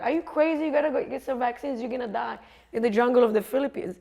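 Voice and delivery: half-hearted yell of alarm; retold yelling. Amsterdam traveller scolding her about vaccines, mock yell. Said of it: "he's yelling at me".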